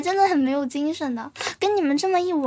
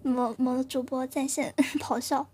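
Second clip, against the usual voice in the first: whisper; 3 semitones lower, 5 dB quieter, slower than usual. Real, not acted. Jokes about streamer roaring.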